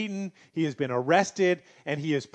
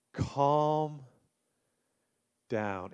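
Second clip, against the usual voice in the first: Calm said softer, down sinking lower and much softer; an even gentler Calm down; 3 semitones lower, 5 dB quieter than usual. Shown as a demonstration. Pastor repeating the advice to anxious listeners, softer still. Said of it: "do you need to hear that".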